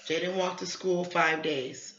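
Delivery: slow, careful rereading; slow deliberate read. Shown as a demonstration. Teacher rereading the problem to her student, slow. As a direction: spell it out slowly for him. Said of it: "teacher rereading slowly for child".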